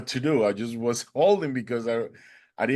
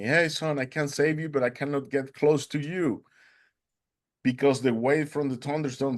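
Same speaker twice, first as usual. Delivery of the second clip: retold yell; 3 semitones higher than usual. Fisherman calls to the stranded swimmer, mock yell. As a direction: imitate calling out, without full volume. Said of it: "he started yelling at me".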